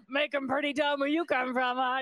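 a knowing jab at a city fool; mocking waitress. Waitress silently mocking the customer, high and teasing. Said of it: "she's thinking".

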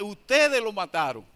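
firm, loud accusation pointing at the crowd; accusing. Retold or imitated. Pedro accusing the crowd, firm loud accusation. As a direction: hammer the blame on ustedes. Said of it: "y acusó directamente".

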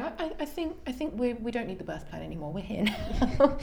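high, laughing dismissal of the paperwork; amused midwife. Retold or imitated. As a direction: chuckle it off kindly. Annie waves away birth plan.

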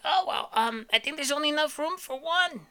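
put-on high, snotty dismissive baby. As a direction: brush him off like a bratty baby. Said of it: "He's kind of a dick".

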